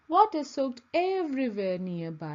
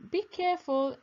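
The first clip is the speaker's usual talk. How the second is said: warning; 7 semitones higher than usual. A narrator's reading. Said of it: "Amy warned".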